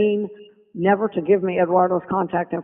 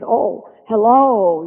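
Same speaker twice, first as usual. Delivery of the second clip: elegant hello; 3 semitones higher, 4 dB louder, much slower than usual. Retold or imitated. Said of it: "He was always so elegant".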